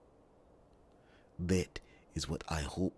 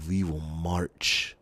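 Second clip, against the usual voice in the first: rallying call; 6 dB louder than usual. Acted. Rallying the queen to war.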